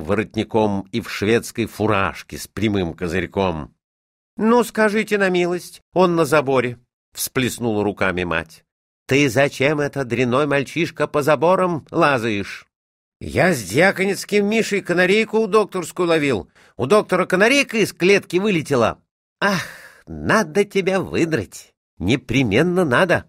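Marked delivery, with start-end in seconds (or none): 4.4-6.8 high-pitched motherly dismay; indignant surprise. A narrator's reading. Mother spotting her son up on the fence, indignantly astonished. 9.1-12.7 raised-pitch cross mother; motherly scolding. A narrator's reading. Mother scolds the boy for climbing fences, mildly cross. 13.2-19.0 high-pitched, quickening schoolboy voice; excited boy. A narrator's reading. Boy explains canary hunt to his mother, excitedly.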